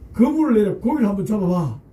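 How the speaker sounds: Jesus says it casually, like a friend's suggestion; casual command. Acted. Jesus casually asks Simon to fish, offhand. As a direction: toss it off lightly as an offhand request. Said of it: "충격적인 말씀하십니다".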